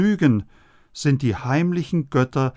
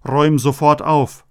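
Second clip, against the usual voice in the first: a mother's firm order, louder; mother barking at a messy child to tidy up; stern command; 5 dB louder than usual. Retold or imitated. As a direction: tell the child off sharply. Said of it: "wenn die Mutter sagt".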